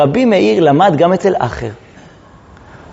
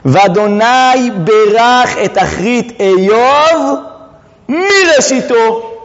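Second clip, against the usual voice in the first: very slow, stretched-out declamation; weighty, deliberate scriptural quotation; solemn verse recitation; 3 semitones higher, much slower than usual. Retold or imitated. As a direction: draw out each word of the verse. Recites the verse as Akiva expounded.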